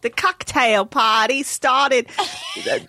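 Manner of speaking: halting New Zealand attempt; New Zealand accent. Shown as a demonstration. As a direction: feel your way through a Kiwi accent. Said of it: "this is New Zealand. Ready?".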